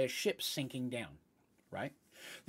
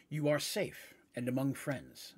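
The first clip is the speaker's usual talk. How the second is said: slow deep Minotaur voice; slower than usual. Acted. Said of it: "an incredibly deep voice".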